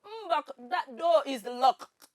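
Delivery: slow, playful Calabar accent. Shown as a demonstration. Contestant attempting the challenge phrase, in Calabar accent. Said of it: "a Calabar accent".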